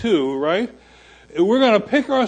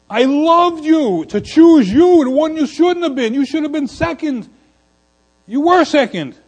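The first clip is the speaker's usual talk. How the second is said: God speaking; 9 semitones higher, 4 dB louder than usual. Acted. Preacher voices God to Jacob.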